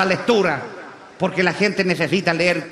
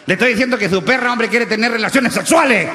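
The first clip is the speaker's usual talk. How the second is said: mildly raised, insistent officer's voice; mock exasperation; 3 semitones higher, 4 dB louder than usual. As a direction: spell it out as a fed-up policeman. Policía exasperado insiste ante el dueño. (policía exasperado, insistente)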